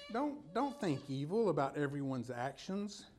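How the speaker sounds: ordinary talk, nothing marked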